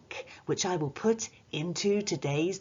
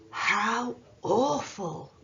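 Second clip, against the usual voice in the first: slow, higher, drawn-out horror; exclaiming; 5 semitones higher, much slower than usual. Shown as a demonstration. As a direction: stretch "How awful!" out like it's shocking.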